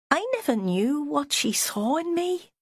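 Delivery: a meek, self-pitying man; weedy voice. A narrator's reading. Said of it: "His voice was weedy".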